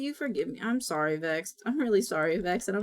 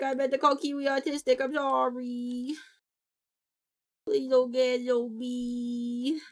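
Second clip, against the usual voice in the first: remorseful whine. Real, not acted. Streamer begging Vex's pardon for the mix-up, remorseful whine. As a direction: stretch each sorry into a long whine. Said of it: "I feel so bad".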